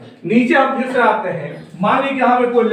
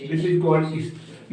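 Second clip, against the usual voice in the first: very slow and softer, word by word; slow naming; 4 semitones lower, 6 dB quieter, much slower than usual. Shown as a demonstration. Teacher telling students the direction's name, slowly and softly. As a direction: let each word sink in.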